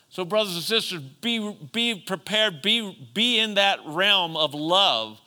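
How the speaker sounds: insistent sermon delivery, leaning on key words; emphatic preaching. Real, not acted. Preacher urging brothers and sisters to love, emphatic. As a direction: exhort them with conviction.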